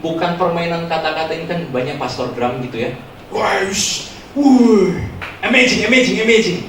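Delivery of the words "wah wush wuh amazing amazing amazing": gushing, higher crowd reaction; mock amazement. Congregation raves over pastor's empty wordplay, gushing. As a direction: imitate a wowed congregation.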